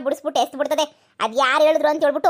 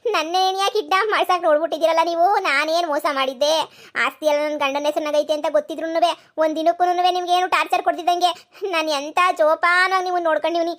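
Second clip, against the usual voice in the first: hurt accusation; 3 semitones higher than usual. Acted. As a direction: reproach her with hurt disbelief. Daughter-in-law confronts mother-in-law.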